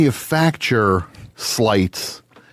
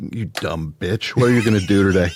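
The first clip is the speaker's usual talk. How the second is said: harsh self-talk; 3 semitones lower than usual. Retold or imitated.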